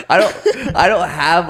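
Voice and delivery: words broken by high laughter; laughing. Real, not acted. Laughing at own awkward words.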